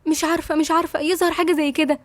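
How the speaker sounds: catching her breath between words; panting. Acted. Yasmin to Nada after the whispered warning, lightly panting. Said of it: "وهي بتاخد نفسها بصعوبة وبتنهج".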